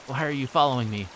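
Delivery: loud, fearful demand; terrified. Acted. Keiichi to Reina, who chases him, terrified. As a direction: blurt it out in rising panic. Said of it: "tinged with terror".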